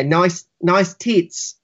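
slow, drawn-out Australian accent. Shown as a demonstration. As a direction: try out a careful Australian accent. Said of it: "like, in an Australian accent".

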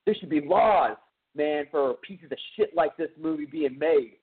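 retold indignant outburst; mock outraged yell. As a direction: imitate an angry man calling out. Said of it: "he yells out loud".

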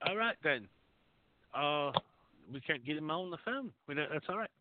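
slight English accent on the phone. Real, not acted. Host coaxing a silent caller to speak, light English accent. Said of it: "when I wanna talk on the phone".

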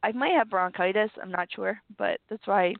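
low, rough, sick-sounding voice; talking through a sore chest; deep hoarse voice. Real, not acted. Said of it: "that's why I sound very deep tonight".

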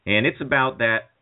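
hammed-up Cal Naughton speech to Ricky; Cal Naughton impression. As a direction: play Cal pleading over his buddy in the hospital. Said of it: "this is Amanda Baines' Cal Naughton".

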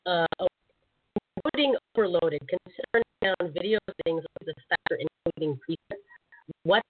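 choppy broken-up audio; cutting in and out like bad radio; breaking up. Real, not acted. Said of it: "you're breaking up pretty bad too".

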